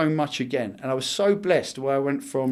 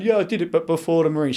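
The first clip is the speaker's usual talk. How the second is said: higher, louder eager protest; 4 semitones higher, 4 dB louder, faster than usual. Retold or imitated. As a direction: blurt it out keenly. His own justification retold.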